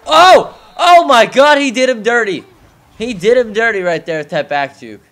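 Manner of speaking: screaming high, hyped play call; wrestling commentator. Real, not acted. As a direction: call it like a ringside announcer. Big juke play hype.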